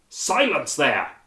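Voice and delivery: a slow, loud roar for silence. A narrator's reading. Bush roaring at the noisy crowd, slow and loud. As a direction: bellow at the crowd to shut up. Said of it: "he roared".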